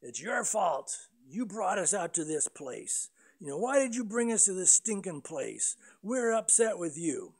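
mock complaint. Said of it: "grumble and complain against Moses".

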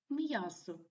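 "м'ясо" with the first syllable stressed. Shown as a demonstration. Teacher gives examples of first-syllable stress, "м'ясо" stressed at the start. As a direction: lean on the opening "м'я" of "м'ясо". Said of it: "з наголосом на першому складі".

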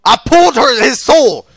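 high, insistent yell; loud protest. Real, not acted. Gamer protesting the soul pull, loud yell.

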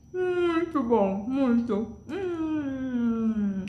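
talking with a mouthful; mouth full. Real, not acted. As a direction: speak through a bite of food. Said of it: "É feio falar com a boca cheia".

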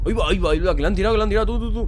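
high, loud rush of repeated exclamations; excited alarm. Real, not acted. Reacting to something thrown in cutscene. (exclamaciones agudas de asombro)

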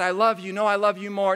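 high, sing-song mock sweet talk; mock lovey-dovey couple. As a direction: tease a gushing couple. Mocking lovey-dovey couple banter.

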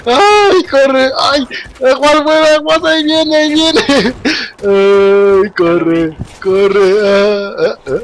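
panicked cries to run; breathless frightened yelling; being chased. Real, not acted. Still being chased in game. (gritos asustados mientras huye)

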